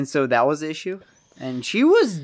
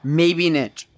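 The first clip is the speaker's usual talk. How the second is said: talking through hiccups; suppressing hiccups between words; slower than usual. Real, not acted. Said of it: "I'm sorry, I have the hiccups".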